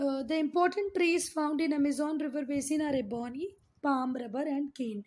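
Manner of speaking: very slow, word by word, like dictating notes; slow textbook dictation. Shown as a demonstration. Teacher dictating a textbook line to her class, very slow. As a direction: read it out slowly so students can copy.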